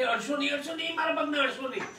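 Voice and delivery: high, playful heroine voice; coy, teasing plea; heroine's coy protest. Retold or imitated. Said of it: "એ કહે છે કે".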